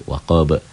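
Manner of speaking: "waqaba" ending in a bounced b; qalqalah kubro. Shown as a demonstration. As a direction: stop on "waqaba" with a small echo after the b. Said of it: "jika berhenti". ("waqaba" berhenti dengan pantulan)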